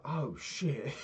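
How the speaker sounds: high, laughing oh shit; a caught-out dad laughing it off; sheepish laughing dad voice. Retold or imitated. Dad realises he upset him.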